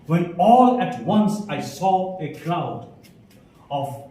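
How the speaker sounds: slow, measured verse reading; poem recitation. Shown as a demonstration. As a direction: recite the verse slowly, line by line.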